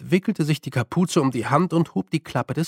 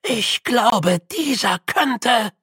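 hesitant start; 7 semitones higher, much slower than usual. A narrator's reading. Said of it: "begann Grütze".

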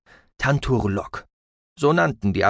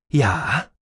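artificial ship computer voice; 3 semitones higher than usual. A narrator's reading. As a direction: speak like a synthetic onboard AI. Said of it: "erklang die künstliche Stimme des Bordrechners".

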